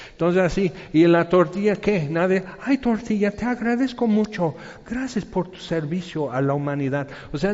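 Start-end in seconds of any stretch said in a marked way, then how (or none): 2.6-7.1 mock gratitude. Mock thanks to the tortilla.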